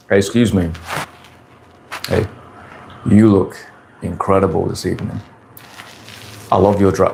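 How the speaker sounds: smooth approach line, evenly pitched with deliberate pauses; demonstrating a flat, unhurried chat-up; flat, controlled pacing. Shown as a demonstration. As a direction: keep it level and take your time. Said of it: "talk in a nice flat way. You wanna control your pacing".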